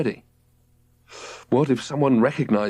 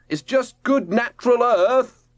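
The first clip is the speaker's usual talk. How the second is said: higher, calm call from above; cheerful boy reassuring; 12 semitones higher, slower than usual. A narrator's reading. Robert from above.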